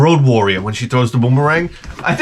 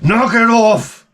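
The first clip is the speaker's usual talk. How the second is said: higher, very slow menacing order; Humongous; 8 semitones higher, 3 dB louder, much slower than usual. Retold or imitated. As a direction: drag out the warlord's command. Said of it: "Humongous is like".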